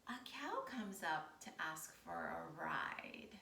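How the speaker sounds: slow, soft storytelling whisper. Acted. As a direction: draw the kids in with a hush. Hushed storytelling to kids.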